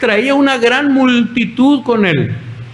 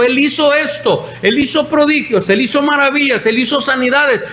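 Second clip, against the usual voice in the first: higher-pitched retold acclaim, item after item; excited crowd praise; 5 semitones higher than usual. Disciples proclaiming Jesus's wonders on the road, excited praise. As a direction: voice a crowd listing wonders in rising enthusiasm.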